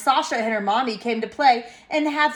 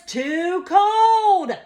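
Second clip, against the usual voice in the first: put-on high, drawn-out childish yell; mock yell; 7 semitones higher, 4 dB louder than usual. A narrator's reading. Child complaining about her bath, mock yelling. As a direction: protest it slowly like a cross toddler. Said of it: "that means she's yelling it".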